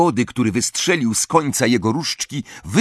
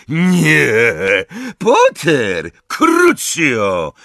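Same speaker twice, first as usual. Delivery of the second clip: shouted attack; 4 semitones higher, 4 dB louder, much slower than usual. A narrator's reading. Villain attacks Harry with curse.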